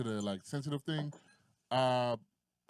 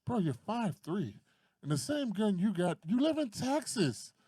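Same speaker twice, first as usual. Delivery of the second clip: incredulous retort; 8 semitones higher than usual. Retold or imitated. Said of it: "And I was like".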